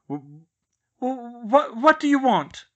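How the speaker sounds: aunt begging to know the demand, terrified; terrified stammer. A narrator's reading. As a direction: panic catching in the throat. Terrified aunt faces threat.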